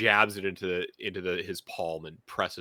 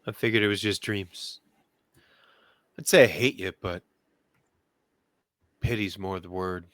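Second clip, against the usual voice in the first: put-on Chicago accent. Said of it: "to bring my Chicago accent on deck here".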